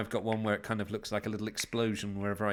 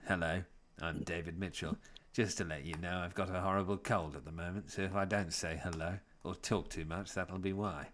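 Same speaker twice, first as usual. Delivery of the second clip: quiet, lower voice with a cold; David Mitchell impression; 4 semitones lower, 4 dB quieter than usual. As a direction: softly imitate a man with a cold. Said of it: "You're good at impersonations".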